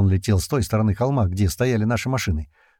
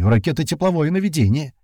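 high, urgent call; alarmed yell; 6 semitones higher than usual. A narrator's reading. Comrade explaining the rocket threat, alarmed yell. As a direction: shout the warning out. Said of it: "заорал Колючий".

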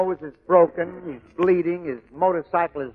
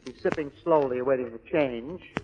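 normal talking voice

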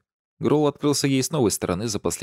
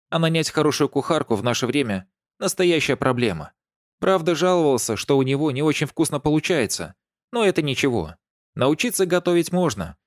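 put-on high, gushing old neighbour; lightly voiced chatty old lady; 6 semitones higher than usual. A narrator's reading. (восторженная старушка)

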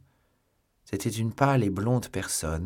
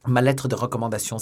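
louder cry, leaning on "lettre"; first alarmed cry of "lettre"; exclaimed; 4 semitones higher, 6 dB louder, faster than usual. Acted. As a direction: call out about the lost letter. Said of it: "s'écria D'Artagnan".

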